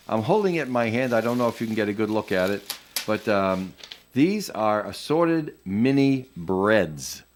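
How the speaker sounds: muffled behind a mask; speaking through a face mask; through a plague doctor mask. Real, not acted. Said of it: "can you hear me well with the mask".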